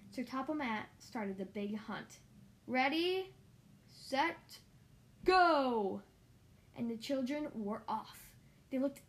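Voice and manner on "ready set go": loud, rising race-start shout; starting call. A narrator's reading. Starting the egg hunt.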